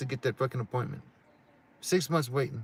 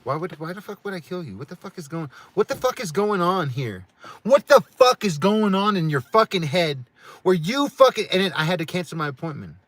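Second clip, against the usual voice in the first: furious rant; 7 semitones higher, 10 dB louder than usual. Real, not acted. Ranting at wife's accusation.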